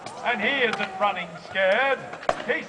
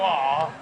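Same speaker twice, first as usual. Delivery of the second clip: sympathetic aww; 5 semitones lower than usual. Shown as a demonstration. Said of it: "They go".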